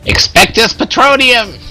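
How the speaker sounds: loud, slow mock Harry Potter incantation; spell incantation. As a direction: proclaim the spell with flourish. Player casts a spell.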